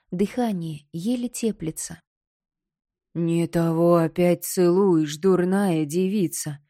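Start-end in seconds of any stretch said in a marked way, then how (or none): 3.1-6.6 slow loud scolding skull; skull shouting. Acted. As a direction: bark at the foolish girl. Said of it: "прикрикнул на неё Найдён". (черепа окрик)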